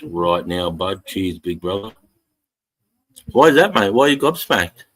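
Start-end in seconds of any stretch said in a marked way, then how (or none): 3.3-4.8 high and loud, teasing curiosity; playful curious quizzing. Real, not acted. Streamer teasing a gobsmacked viewer, high and playful.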